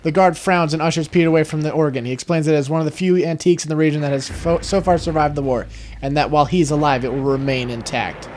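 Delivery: measured story-reader delivery; game narration. A narrator's reading. Player reads how the guard ushers Peter away, narrating. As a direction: read the scene out like a narrator.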